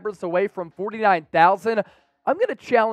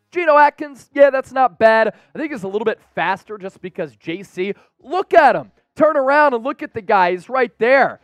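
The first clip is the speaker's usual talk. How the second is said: animated quote; 3 semitones higher, 5 dB louder than usual. Retold or imitated. Reads teammate's quote before accent take.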